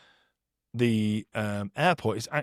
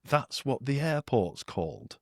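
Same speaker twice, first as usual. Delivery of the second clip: mock innocent question; 4 dB quieter, slower than usual. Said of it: "I was like".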